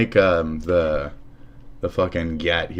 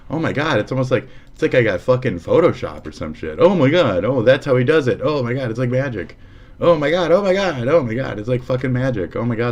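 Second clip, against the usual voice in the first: overacted gasping wonder, pitch jumping higher; mock amazement; 5 semitones higher, 4 dB louder than usual. Streamer mocking his own delight at the photo editor. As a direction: gush over the tool as if it were a miracle. Sarcastic wonder at editing tool.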